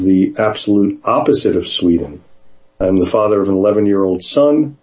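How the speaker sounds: even, fluent book reading; measured read-aloud from a book. A narrator's reading. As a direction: read the memoir passage out to listeners. Reads book chapter aloud.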